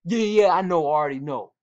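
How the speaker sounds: imitated brush-off, loud at first, then dropping; dismissive. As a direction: mimic a player waving off the coach. Imitates player brushing coach off.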